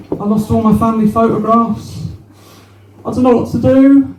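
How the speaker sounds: a hint of a tearful woman pouring it out; imitating upset woman. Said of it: "I'm like".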